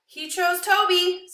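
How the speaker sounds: loud, high, slowed shout; triumphant shout. Acted. Sadie shouting that the dog chose Toby, triumphant. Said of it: "Sadie shouts".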